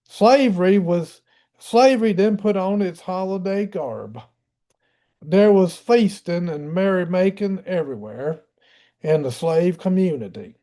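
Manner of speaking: put-on a light Southern US accent, reading the old quote. Shown as a demonstration. Lecturer reads a period quote to the class, mild Southern accent. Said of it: "I'll do a Southern accent. How's that?".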